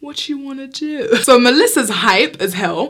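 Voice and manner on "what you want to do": put-on cool, cocky calm, said softly. Retelling facing a girl before a fight: retelling acting calm and cocky. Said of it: "I'm trying to act calm and I'm trying to act cocky".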